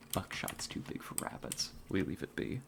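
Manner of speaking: whispered, keeping quiet near the prey; hunter's whisper. Real, not acted. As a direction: whisper so the game won't hear. Hunting, staying quiet near game.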